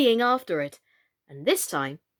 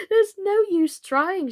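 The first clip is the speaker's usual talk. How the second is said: Alice's voice; 9 semitones higher, 5 dB louder, slower than usual. Acted.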